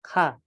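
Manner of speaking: K pressed in the throat, then released softly; soft throaty kha. Shown as a demonstration. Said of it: "ditekankan dalam tenggorokan dulu, tapi dibacanya halus".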